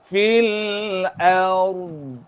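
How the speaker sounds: ard recited with tongue pressed up for dhad; teacher models fil ard; recitation demo. Shown as a demonstration. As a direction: stress the dhad in ard, tongue stuck to the palate. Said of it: "Ha, dia lekat".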